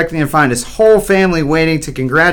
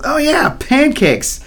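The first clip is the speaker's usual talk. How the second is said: high, slow, drawn-out delight; excited mock yell; 11 semitones higher, slower than usual. A narrator's reading. Hungry boy suddenly remembers his pancakes, yelling excitedly in mock fashion. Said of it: "he yelled excitedly".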